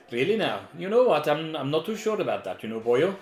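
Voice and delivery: put-on light Welsh accent, teasing. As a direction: drop into a playful Welsh lilt. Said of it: "chat thinks if you do a Welsh accent".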